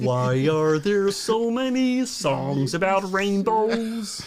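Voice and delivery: slow, lightly voiced Kermit the Frog; a hint of Kermit, slow and puzzled; Kermit impression. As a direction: drawl it out like Kermit, gently. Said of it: "Oh, Kermit".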